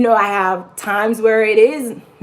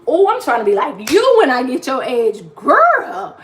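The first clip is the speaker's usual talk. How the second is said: gushing compliment; 4 semitones higher, 3 dB louder than usual. Retold or imitated. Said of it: "and I be like".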